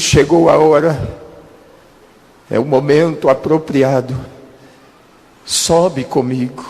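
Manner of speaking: slow, solemn, lightly voiced divine call; a hint of a grave heavenly voice, unhurried; voice of the Lord. The Lord speaks to dying preacher.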